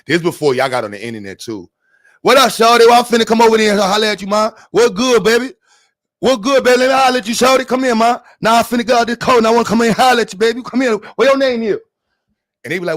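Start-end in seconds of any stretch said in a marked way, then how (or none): 2.2-11.8 put-on country Southern accent. Man hollering at girls, fast country Southern accent. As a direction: run the words together like a country Southerner. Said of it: "I can still do my country shit".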